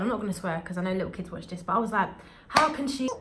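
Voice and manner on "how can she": higher, outraged rant; retold shouting. Student ranting after being pulled on stage, outraged. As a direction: fume about the teacher, raised voice. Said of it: "I was shouting".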